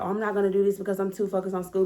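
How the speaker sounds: quick mock whiny excuse. Mimicking a student who skips the fun, quick. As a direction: rattle off a lazy excuse. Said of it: "the type of person".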